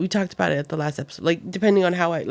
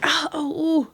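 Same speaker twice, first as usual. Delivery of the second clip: higher, imitated "ah, oh, ooh" of pain; mock pain moans; 8 semitones higher than usual. Pregnant mom retelling her twinges, mock pain moans. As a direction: act out sudden pregnancy twinges in little moans.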